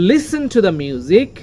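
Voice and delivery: slow line, weight on Listen and music; stressed reading. Shown as a demonstration. Teacher modelling the line, stressed music. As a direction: lean on the m of music. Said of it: "এখানে ম এর উপরে stress রয়েছে".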